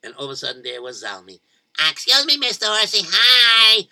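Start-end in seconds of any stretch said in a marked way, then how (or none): 1.9-3.9 louder, bright friendly call; cheerful greeting. Acted. Zalmi calling out to the charging horse, cheerful.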